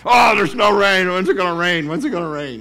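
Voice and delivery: high, loud whiny complaint; mock complaining. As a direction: grumble like a bored neighbour. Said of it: "people were complaining".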